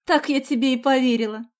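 high, loud disbelieving retort; indignant cry. A narrator's reading. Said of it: "закричала Соня".

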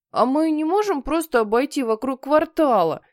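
whine. Acted. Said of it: "заныл Генри".

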